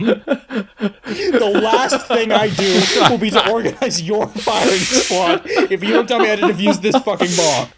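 quoting through laughter, slow; laughing. Retold or imitated. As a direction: laugh while reading the threat. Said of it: "laughing retelling Cain's threat".

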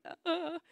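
high, soft mock-nervous "uh, uh"; playful imitation of nervous stammering; nervous noises. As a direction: make small high sounds of pretend nerves. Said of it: "I know everyone's feeling nervous".

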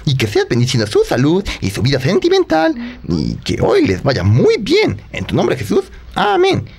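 earnest spoken prayer. Acted. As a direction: pray over her sincerely. Prays for her birthday. (oración)

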